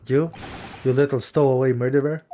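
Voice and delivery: loud, contemptuous sailor sneer; a hint of a rough sailor; gruff sailor. Sailor barks at the stowaway.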